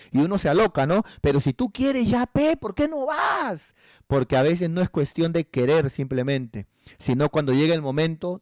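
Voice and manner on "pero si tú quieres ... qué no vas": high, drawn-out incredulous question; mock exasperation. Challenging someone who claims to want church, exasperated. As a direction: challenge them in a raised, stretched voice. Exasperated retort to the non-attender.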